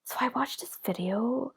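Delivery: whispered conspiratorial report; imitating Dan. Dan whispering true-crime news to her in the kitchen. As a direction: whisper the gossip like a secret. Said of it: "he'll be like".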